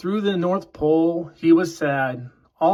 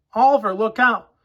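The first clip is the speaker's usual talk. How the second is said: shouted warning; 5 semitones higher, 3 dB louder than usual. Acted. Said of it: "one of the elves shouted".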